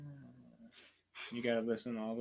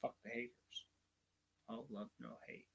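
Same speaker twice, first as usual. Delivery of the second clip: TikTok guy; 2 semitones lower, 12 dB quieter than usual. Retold or imitated. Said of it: "TikTok guy".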